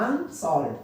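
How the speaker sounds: अनसॉल्व्ड split after अन; separate syllable. Shown as a demonstration. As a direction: set अन apart from सॉल्व्ड in अनसॉल्व्ड. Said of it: "एक separate syllable हो गया". (अनसॉल्व्ड में अन अलग, फिर सॉल्व्ड)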